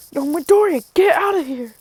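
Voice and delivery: high-pitched shouted-style command; acted urgent order. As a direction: order him away in mock alarm. All Might orders Deku away.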